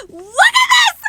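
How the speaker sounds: very high, loud joyful screaming; screaming with excitement. Real, not acted. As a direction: scream your head off with delight. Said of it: "I could just scream my head off".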